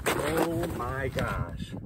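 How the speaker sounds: stunned, hushed and drawn out; awed hush. Real, not acted. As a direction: breathe it out in disbelief. Stunned by biggest perch ever.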